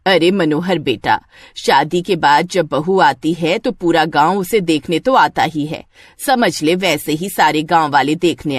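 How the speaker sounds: a lightly voiced older mother calming Manohar down; motherly village woman. (गांव वालों को समझाती माँ, शांत और नरम लहजे में)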